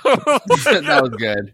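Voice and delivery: laughing through slow words; words squeezed out between laughs. Real, not acted. Listener laughing at joke.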